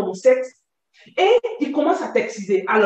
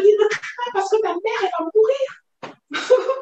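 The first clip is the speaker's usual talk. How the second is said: crying; 8 semitones higher than usual. Real, not acted. Quoting threat while crying.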